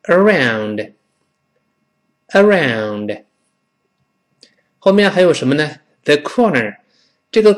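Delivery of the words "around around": around very slowly, long gliding OW; read-aloud model. Shown as a demonstration. Teacher leads class reading aloud, slow model around. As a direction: stretch around with a full ow-n ending. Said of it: "我们大声读一遍".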